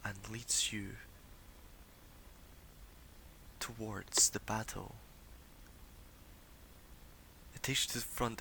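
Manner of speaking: hushed, measured vision narration with long pauses; seer's vision. Acted. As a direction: unfold the vision phrase by phrase. Game master narrates a vision.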